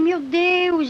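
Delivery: high, loud exclamation; retold desperate cry. Testifier relives the horror in hell, desperate outcry. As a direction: cry out to God as if despairing. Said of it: "fiquei naquele desespero".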